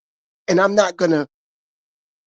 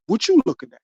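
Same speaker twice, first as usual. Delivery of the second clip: snapped back, pitched up high; touchy, pitched-up retort; defensive comeback; 6 semitones higher, faster than usual. Retold or imitated. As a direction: fire it back like you're ready to fight. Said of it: "My old response would be like".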